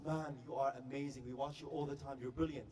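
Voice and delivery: male fan. Retold or imitated. Guy friend praising the star, low-key male voice. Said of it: "And the guy says".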